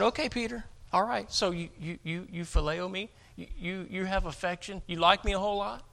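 soft, stammering, let-down question; acted hesitant concession; resigned question. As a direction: feel your way quietly to a lesser question. Acting Jesus settling for lesser love.

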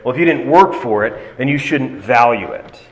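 "work" leaned on as the key word; "work" stressed to voice a mistaken reading. Shown as a demonstration. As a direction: put the weight on "work", then "value". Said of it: "That emphasis wouldn't make any sense".

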